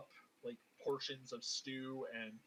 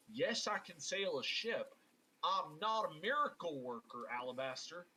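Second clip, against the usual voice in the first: exasperated Southern retort, slightly higher; Southern accent; 3 semitones higher than usual. Acted. Abel telling Alabaster he's no miracle worker, Southern accent. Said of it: "I was doing the Southern accent".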